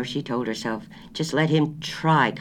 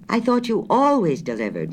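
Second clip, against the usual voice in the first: higher and louder, a little raised; 9 semitones higher, 4 dB louder than usual. A narrator's reading. Wife repeating her order louder to grocer. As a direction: speak up so he can hear.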